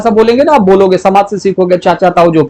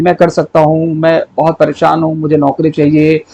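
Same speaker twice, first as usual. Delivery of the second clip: lightly acted thinking to oneself, low-pitched; mock inner monologue in an even, lowered pitch; imitating inner thoughts; 3 semitones lower than usual. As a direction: run through worries and hopes as private self-talk. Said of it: "ये मन में सोच रहे हो".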